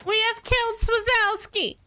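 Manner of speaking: high, victorious announcement; triumphant call. Real, not acted. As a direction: shout the win out high. Boss killed, calling out.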